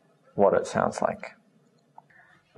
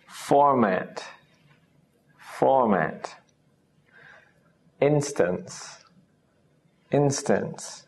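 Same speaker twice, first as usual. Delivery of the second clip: slow clear reading; slower than usual. Shown as a demonstration. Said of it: "let's read these words out".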